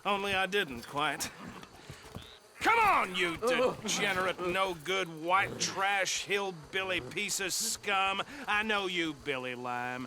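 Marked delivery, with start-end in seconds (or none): 2.6-8.2 angry shout. Acted. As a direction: bark the insults at him. Arrest, hurling insults at prisoner.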